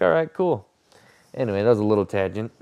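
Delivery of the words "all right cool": emphatic brush-off. Real, not acted. Excited retort, loud.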